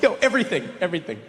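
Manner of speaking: a stunned customer, insulted, yelps back; shocked what. Retold or imitated. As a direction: squeak out total disbelief. Shocked reply to clerk.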